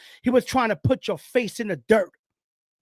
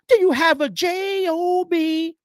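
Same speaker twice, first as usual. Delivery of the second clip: spelled out slowly; 6 semitones higher, slower than usual. Acted. Mocking a broke listener.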